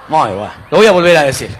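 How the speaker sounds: normal talking voice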